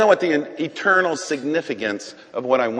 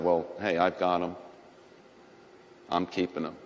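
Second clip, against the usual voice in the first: voice of the Lord; 7 semitones lower, 8 dB quieter than usual. Acted. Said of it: "And the Lord said".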